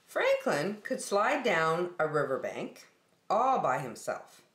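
gentle storybook narration; story read to children. Acted. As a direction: read it like a teacher to little kids.

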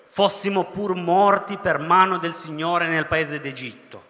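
loud, slow grumbling Israelites; drawn-out loud lament of a grumbling people; loud mock complaint. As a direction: declaim it slowly like a bitter complaint. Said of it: "questa è veramente forte".

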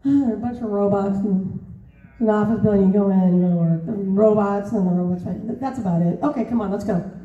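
lightly imitated mumbling director, low and run-together; Michael Bay mumbling. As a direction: mumble the plot offhand, as an awkward director. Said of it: "and he mumbles".

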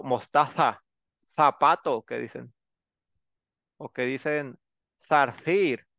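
lisped Spanish z as in Spain; imitating Spaniards' lisped z; Spanish accent. Shown as a demonstration. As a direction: demo of Castilian theta. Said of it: "que hablan así".

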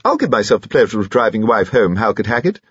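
slightly piping, courteous offer; mild squeak. Acted. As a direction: offer help in a lightly squeaky voice. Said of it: "squeaked Lord Robert".

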